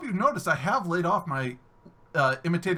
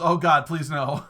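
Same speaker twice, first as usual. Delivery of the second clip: mock dread; 3 semitones lower, 5 dB louder, slower than usual. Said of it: "Core Trapson says".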